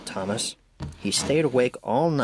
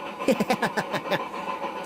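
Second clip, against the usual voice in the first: teasing laugh; 9 semitones higher, 4 dB quieter than usual. A narrator's reading. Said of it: "laughing loudly".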